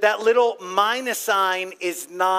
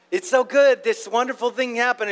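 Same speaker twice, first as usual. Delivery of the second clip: excited good news; 4 semitones higher, 3 dB louder than usual. Retold or imitated. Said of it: "it's like".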